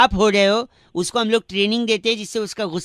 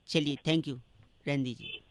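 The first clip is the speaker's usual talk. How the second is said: mock despair; 9 semitones lower, 15 dB quieter than usual. Prankster fakes hopeless despair.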